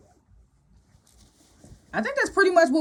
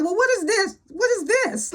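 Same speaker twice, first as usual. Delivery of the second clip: higher-pitched, imitated indignant questioning; mock incredulous challenge; 8 semitones higher than usual. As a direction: retell it as a pointed, incredulous demand. Retold challenge about the party.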